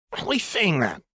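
high, flustered sputter. Acted. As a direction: blurt it out confused. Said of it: "Jinx sputtered".

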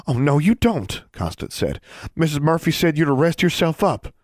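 high lightly voiced young girl. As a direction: speak up as an eager young girl.

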